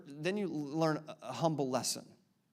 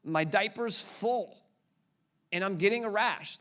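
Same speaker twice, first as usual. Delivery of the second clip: put-on crying baby; 4 semitones higher than usual. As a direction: whine it out like a fussy infant. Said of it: "You cried like this".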